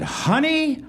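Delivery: mock heroic earnestness; strong conviction. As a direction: deliver it with dead-serious conviction. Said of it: "with strong conviction".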